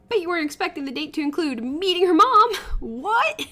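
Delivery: loud, cackling tease; laughing. Acted. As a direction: crack up mid-line. Pranksters burst in.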